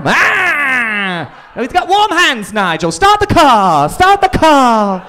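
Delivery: high, shrieking mock English panic; mock panicked English. An English person panicking at warm hands to Nigel, in a high mock-panicked English accent. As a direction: squeal in fake terror, English style.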